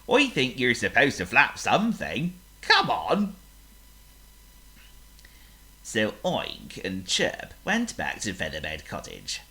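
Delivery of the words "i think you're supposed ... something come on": a dim pig offering advice. Acted. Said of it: "he said at last".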